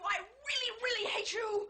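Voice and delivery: a choked, crying shout of hate; tearful cry. Acted. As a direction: break into tears on the words. Wife's tearful outburst in quarrel.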